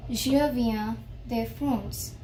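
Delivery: "Je viens de France" said slowly and clearly; slow, careful "Je viens de France"; slow model sentence. Shown as a demonstration. Teacher models "Je viens de France" slowly for beginners. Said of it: "we say".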